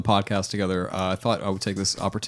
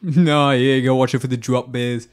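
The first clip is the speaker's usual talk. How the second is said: mock Australian; slower than usual. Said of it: "you went Australian with that".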